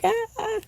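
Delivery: high squealed imitation of her excited scream; mock scream. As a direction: replay the email squeal. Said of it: "I was, like, screaming".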